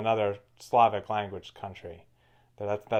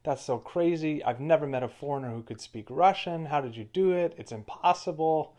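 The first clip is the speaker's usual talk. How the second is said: mock astonishment, pitched higher; imitating amazed Russians; 5 semitones higher than usual. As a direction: play the stunned local, higher and wide-eyed. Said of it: "Everybody was always surprised".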